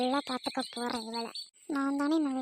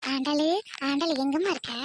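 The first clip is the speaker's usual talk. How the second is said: calling out; 4 dB louder than usual. Acted. Calling out for daughter-in-law.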